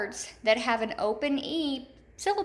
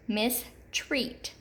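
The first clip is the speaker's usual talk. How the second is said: "mistreat" split, long E in "treat"; stressed second syllable; 4 dB quieter than usual. Shown as a demonstration. Teacher repeating the word, "mistreat" stressed on the second syllable. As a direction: separate "mistreat" into two syllables, stretching the second. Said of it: "accented in the second".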